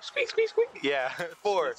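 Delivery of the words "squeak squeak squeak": very high squirrel squeaks; squeaky rubber duck. Pretend. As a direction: squeak like a tiny toy. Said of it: "what do you say? As a squirrel".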